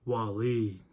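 low drawn-out sinister call of a name; diabolical voice. Retold or imitated. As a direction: say the name like a villain savoring it. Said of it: "he had this diabolical voice".

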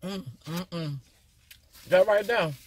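talking while chewing salad; muffled chewing hums; mouth full, chewing. Real, not acted. Seen 1: salad bite at -1.0, closed-mouth chewing visible until about 3.9.

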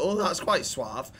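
slow, lightly posh "Oh, that's quite suave" with "suave" as "swahv"; mock posh diner. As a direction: play a mildly posh restaurant guest, slowly. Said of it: "If you go to a posh restaurant".

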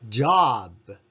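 ジョブ with the ブ weak and gentle; soft final b. Shown as a demonstration. Teacher modelling ジョブ for the class. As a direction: punch ジョ, let ブ fade softly. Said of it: "ブは弱く優しく発音してください".

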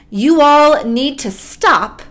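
lightly voiced firm mom. God as mom calls everyone to lunch, mild mom voice. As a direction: call a halt with a hint of mom authority. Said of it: "in her mom voice says".

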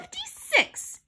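very high, slow answer; girl's yelled answer. A narrator's reading. Girl answering the quiz, high mild yell. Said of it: "yelled Andrea".

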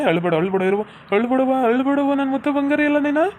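rising sing-song comforting; soothing a child. Acted. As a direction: hush a little one with a rising, cooing lilt.

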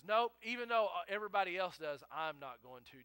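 loud opening boast, settling as it goes; puffed-up bravado. Retold or imitated. Peter boasting to Jesus he won't fall away, puffed-up bravado. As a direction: imitate a cocky, chest-out refusal. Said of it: "He's got his chest puffed out".

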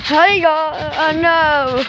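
bursting out the greeting early; eager greeting. Real, not acted. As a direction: call it out, can't hold it in. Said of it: "I couldn't wait to say that".

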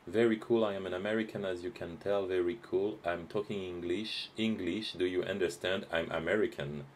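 mock American accent. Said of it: "nous avons un Américain".

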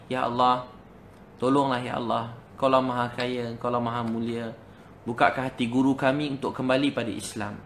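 measured, imploring litany to God; pleading prayer. Retold or imitated. Students praying for their teacher's return to Islam, pleading prayer. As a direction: imitate students begging God in even phrases. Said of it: "mereka doa berterusan tak berhenti".

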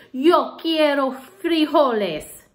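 slow, loud, solemn pronouncement; slow somber declaration. Acted. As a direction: declare it slowly and gravely. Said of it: "in his most somber voice".

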